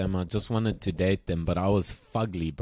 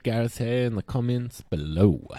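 mock announcer; 2 semitones higher than usual. Host presents his co-host's haircut to listeners, mock announcer.

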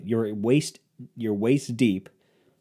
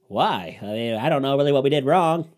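put-on higher-pitched old-timey guy; 4 semitones higher than usual. Old ballplayer defending the team's name, old-timey guy voice. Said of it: "I could do the old-timey guy voice".

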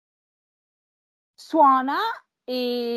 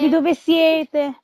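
slow and clear; 5 semitones higher, 4 dB louder, much slower than usual. Retold or imitated. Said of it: "Poi c'è".

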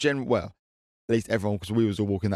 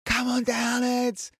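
high, slow Essex woman impression; drawn-out Essex cheer; Essex accent; 13 semitones higher, much slower than usual. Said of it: "I'm doing, like, an Essex accent".

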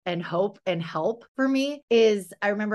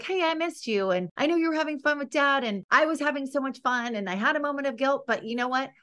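put-on higher, sweet voice of a mom talking to her little girl; gentle mom to daughter; 6 semitones higher, faster than usual. Mom apologizing to her daughter, lightly higher and sweet. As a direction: speak to your kid like you're making up after a rough moment. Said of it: "just be like".

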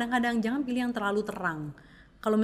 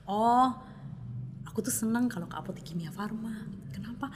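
customer voice; 5 semitones higher, slower than usual. Retold or imitated. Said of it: "Jadi dia bakal lihat".

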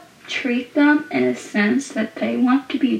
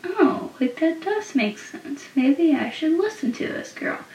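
imitated realization; 3 semitones higher, 6 dB quieter than usual. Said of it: "being like".

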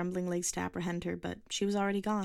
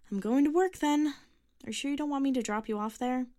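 higher, louder mother voice; 8 semitones higher, 5 dB louder than usual. Acted. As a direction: call it like a busy mom.

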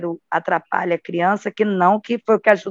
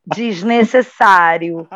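desnecessário stretched slowly; drawn-out desnecessário; much slower than usual. Shown as a demonstration. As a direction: say desnecessário slowly, every syllable long. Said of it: "Aí".

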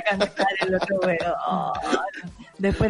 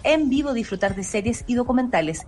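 ad read. Acted. Host reads the station ad.

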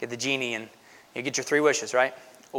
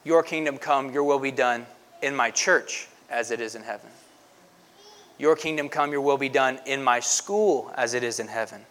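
hushed, earnest praying of each line; soft prayer demo. Shown as a demonstration. Pastor showing the congregation how to pray, softly. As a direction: pray it gently, one place at a time. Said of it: "So you would say".

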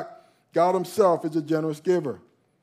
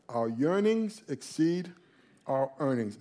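slow, soft repeat; 3 semitones lower, 4 dB quieter than usual. Shown as a demonstration. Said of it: "repeated slowly, softer".

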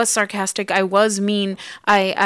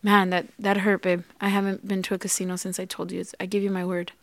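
softer, calm and patient, taking the blame; calm, gentle reply; 5 dB quieter, faster than usual. Retold or imitated. Husband calmly answering his angry wife, soft and patient. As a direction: soothe her calmly while she vents. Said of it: "really calmly say".

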